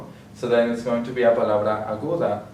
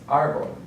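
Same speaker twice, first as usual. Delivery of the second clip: "árbol" with ÁR stressed, pitched higher; stress on first syllable; 4 semitones higher than usual. Shown as a demonstration. Teacher demonstrating the accent mark, first syllable of "árbol" stressed. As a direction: hit the ÁR in "árbol". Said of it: "accent mark on the first syllable".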